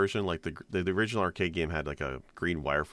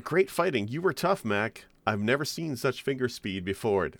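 Mike Tyson; 6 semitones higher than usual. Retold or imitated. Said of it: "Mike Tyson".

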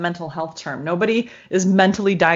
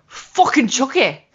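put-on slow, higher, tough little kid voice; little girl; 4 semitones higher, slower than usual. Little girl naming who bit her, tough and indignant. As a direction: drag it out like a cussing small child. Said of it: "that little girl who's all".

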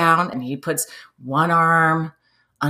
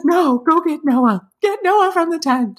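retold tearful panic; 13 semitones higher, 4 dB louder than usual. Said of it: "I just keep crying".

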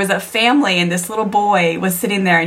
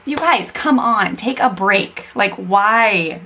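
nagging tone; slower than usual. Retold or imitated. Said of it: "I hear my tone".

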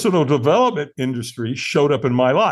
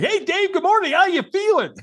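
much higher, bubbly mock cheerful greeting; enthusiastic sponsor. Sponsor John phoning a hungover newcomer, much higher chirpy mock cheer. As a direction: play the over-eager friend calling at dawn. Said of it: "And he's like".

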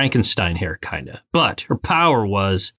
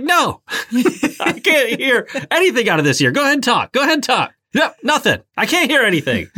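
put-on much higher whiny baby voice; big baby mode; 12 semitones higher, faster than usual. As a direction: wail it like a panicked toddler. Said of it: "I went into big baby mode".

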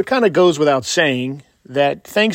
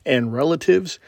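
booming showman announcement; ringmaster. Acted. Grand podcast opening announcement.

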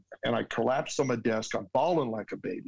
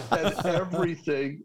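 laughing; 6 semitones higher than usual. Real, not acted. Laughing after dad's joke.

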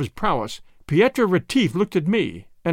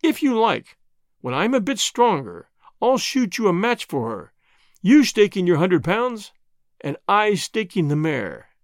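added slowly; 2 semitones higher than usual. Acted. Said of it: "I added slowly".

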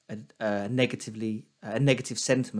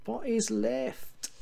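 high, slow teasing repeat of the question; mock disbelieving echo; 10 semitones higher, 5 dB quieter, much slower than usual. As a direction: echo it back as if it's absurd. Co-host echoes in disbelief.

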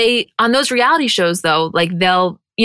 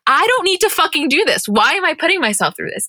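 imitated indignant refusal, starting high; mock protest; 8 semitones higher than usual. Podcaster retells Kim at the zip line in high mock protest. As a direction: act out her balking, voice pitched up.

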